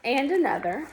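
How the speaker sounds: animated picture-book narration; story read-aloud. A narrator's reading. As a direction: read to children, leaning on key words. Reads picture book aloud to children.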